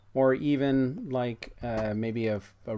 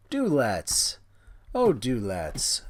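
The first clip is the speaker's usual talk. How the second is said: slow, hammed-up posh lady; mock posh; 3 dB louder, slower than usual. Real, not acted.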